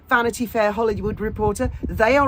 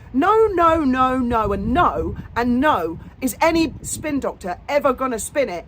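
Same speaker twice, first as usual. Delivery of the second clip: animated; 3 semitones higher, 3 dB louder than usual. Real, not acted. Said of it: "you can see I'm still quite animated".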